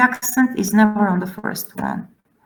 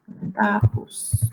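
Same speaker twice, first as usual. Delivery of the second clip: "Dentatus" slowly, softer, leaning long on TA; drawn-out stressed TA; 5 dB quieter, slower than usual. Shown as a demonstration. Teacher repeating the suffix example, slow stress on TA. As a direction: stretch the TA in "Dentatus". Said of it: "then the accent is there".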